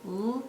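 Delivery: "L-A-D" as three separate soft sounds; segmenting sounds. Shown as a demonstration. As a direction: tap out "L", "A", "D" one by one, softly. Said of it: "we would tap it out together".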